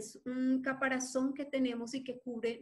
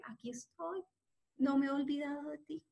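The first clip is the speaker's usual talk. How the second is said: gentle reassurance. Acted. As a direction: comfort a frightened child. God answering tenderly.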